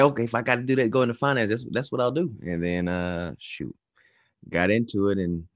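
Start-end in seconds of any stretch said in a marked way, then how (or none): 0.0-2.3 higher-pitched quoted line; resigned self-talk. Retold or imitated. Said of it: "but say".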